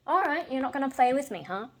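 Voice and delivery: pet-talk voice. Real, not acted. Talking to the pet.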